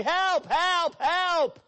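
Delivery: loud, high, frantic calls for help; mock cry for help. Camper calling out in the night, high loud yells. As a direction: shout for help in a panic.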